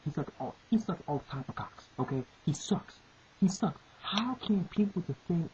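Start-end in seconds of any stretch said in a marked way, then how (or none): 2.4-3.0 breathy whisper of the insult. Real, not acted. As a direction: hiss out he sucks under the breath. Repeating the insult.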